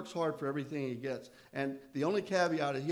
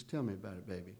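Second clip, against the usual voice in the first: put-on sweet old southern lady; 6 semitones lower, 5 dB quieter than usual. Jean comforts him on phone.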